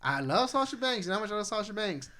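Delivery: very high, loud excited squeal; gushing fan squeal over a favourite star; squealing with joy. Real, not acted. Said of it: "How happy were you to see your girl Sasha".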